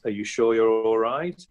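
slow, drawn-out check with a rising end; mildly concerned question. Acted. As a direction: ask it slowly, as if checking on a mate. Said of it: "then it's concern".

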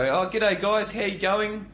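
lightly voiced chirpy comic; a hint of a chirpy stage greeting; cheesy comedian greeting. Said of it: "A comedian will get on stage and go".

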